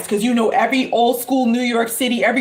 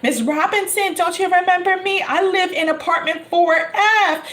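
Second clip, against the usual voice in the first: pleading neighbor; 7 semitones higher than usual. Retold or imitated.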